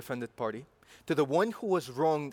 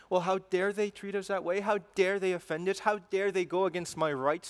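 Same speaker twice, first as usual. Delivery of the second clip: indignant mock outrage; 4 semitones higher than usual. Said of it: "some people might say".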